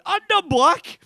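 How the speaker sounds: very high, loud mock outburst; imitated high-pitched holler; hammed-up yell. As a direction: shout it out as the colleague's punchline. Colleague's punchline shouted back while laughing.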